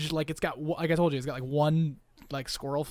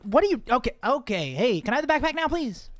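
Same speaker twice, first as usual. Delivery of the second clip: higher, hurried-sounding acted plea; flustered request; 6 semitones higher than usual. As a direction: ask for it, flustered and impatient. Flustered character asks for backpack.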